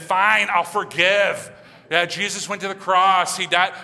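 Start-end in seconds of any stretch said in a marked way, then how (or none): 0.0-1.5 slow, loud, put-upon fine, I'll forgive; grudging forgive. Retold or imitated. Believer forgiving grudgingly, slow put-upon loud sigh. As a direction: drag it out like it's a chore. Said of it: "This is not meant to be that".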